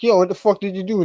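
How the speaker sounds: high, loud mouthy yell at the cop; mouthy retort. Retold or imitated. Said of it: "I said something mousy to him".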